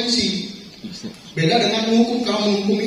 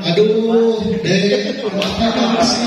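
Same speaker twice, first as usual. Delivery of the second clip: pleading, sad; much slower than usual. Acted. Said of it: "nada suaranya memelas, halus, sedih".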